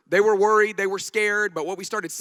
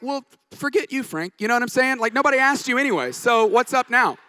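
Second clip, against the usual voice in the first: higher, playful fake put-down; mock sassy comeback; 4 semitones higher, 3 dB louder than usual. Pastor jokes about snapping back at Frank, hammed-up sass. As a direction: pretend to mouth off at your mentor. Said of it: "no, I didn't say that".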